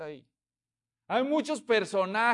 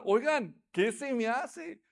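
gossiping villager; 3 semitones higher, slower than usual. Retold or imitated.

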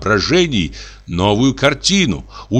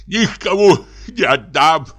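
tearful laughing; 6 semitones higher than usual. A narrator's reading. Dubov kisses dog, tears.

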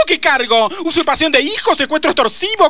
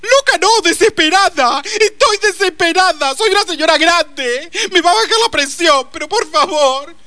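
put-on higher, melodramatic old lady; hammed-up desperation; 5 semitones higher than usual. Mother pleads with the officer, theatrically desperate. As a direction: play the fragile old woman for pity.

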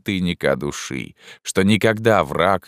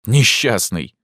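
raised, sharp exclamation; indignant cry; 5 semitones higher, 4 dB louder, slower than usual. Acted. Narrator cries out at Pierrot in contempt. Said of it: "сказал я ему".

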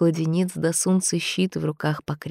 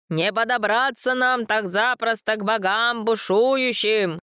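higher shout against the storm; shouting over wind; 6 semitones higher than usual. A narrator's reading. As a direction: yell it over the roaring wind. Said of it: "закричал старец сквозь ветер".

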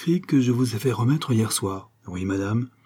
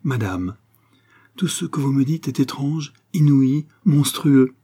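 proud, rising indignation, higher and louder; proudly; 4 semitones higher, 4 dB louder than usual. Acted. Concepcion proudly rejecting the countess's story, indignant. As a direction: build haughty outrage word by word. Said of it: "regarda fièrement la comtesse".

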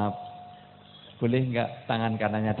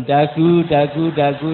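loud re-enacted command, tailing down; rapid repeated mock bark; retold barking; 2 semitones higher, 10 dB louder, slower than usual. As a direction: imitate your own shouted order. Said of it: "sampai saya bentak-bentak".

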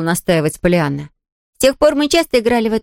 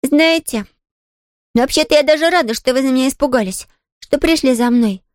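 voice trembling; 6 semitones higher than usual. Acted. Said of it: "Голос девочки дрогнул".

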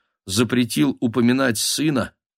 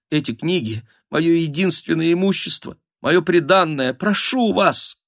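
hushed begging that climbs higher; trembling plea; 7 semitones higher than usual. A narrator's reading. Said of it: "дрожащим шёпотом взмолилась". (робкая дрожащая мольба)

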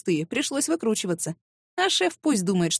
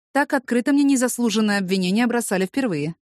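usual speaking voice

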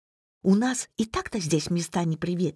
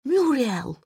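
lightly voiced creaky old father, higher; creaky old man voice; 7 semitones higher than usual. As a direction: rasp it out like a frail old man. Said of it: "проскрипела очень точно, подражая старческому голосу".

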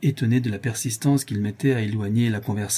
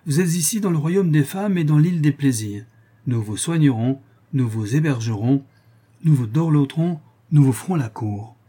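lightly voiced, lilting invitation; welcoming island nymphs; 4 semitones higher, 4 dB louder than usual. Nymphs greet the sailors coming ashore, lightly played welcome. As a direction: welcome them eagerly, a hint of coaxing.

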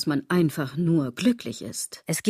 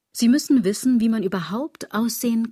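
suddenly louder and higher, insisting; emphatic; 5 semitones higher, 4 dB louder than usual. Acted. Lecturing the listener on appearance, loud and insistent. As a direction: hammer the point home to her. Lecturing about how one must look.

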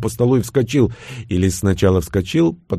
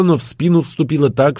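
usual speaking voice

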